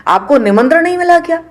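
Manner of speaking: high, incredulous question, lightly voiced; surprised maidens asking. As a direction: ask Sati in disbelief, pitch rising on मिला. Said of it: "वो कहती हैं".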